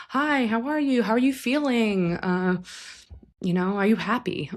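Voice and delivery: bright, high, sing-song caring mom voice; ideal mom. Retold or imitated. Client imagining the ideal mom greeting them, sweetly high. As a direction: sound like the doting mother they wished for. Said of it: "Like my mom would say".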